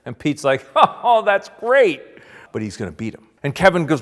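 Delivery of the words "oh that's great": high, loud, drawn-out imitated laughing praise; mock-delighted cackling approval; amused delight. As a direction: laugh into it, stretching the words. Pete laughs at the drawing.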